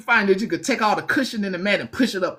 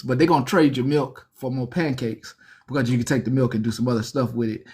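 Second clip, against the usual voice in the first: lowered scheming inmate; 4 semitones lower than usual. Retold or imitated. Seasoned inmate cutting a breakfast deal, low and hushed. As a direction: lean in and slyly sell the trade. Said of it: "so they like".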